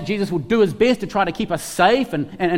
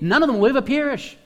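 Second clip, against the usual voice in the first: raised emphatic quote; 7 semitones higher, faster than usual. Acted. Quoting Jesus, raised.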